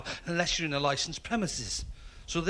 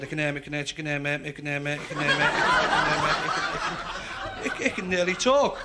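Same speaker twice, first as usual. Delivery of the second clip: stutter; faster than usual. Acted. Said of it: "who stuttered just as bad".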